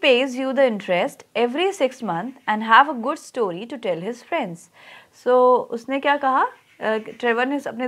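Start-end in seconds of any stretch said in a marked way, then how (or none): 0.0-4.6 slow, measured reading of a text; story read-aloud. Real, not acted. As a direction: read it out slowly for a class, stretching the words. Reads the lesson text aloud.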